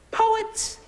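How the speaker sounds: baffled disbelief; incredulous. Acted. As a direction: ask it like you can't believe it. Incredulous question.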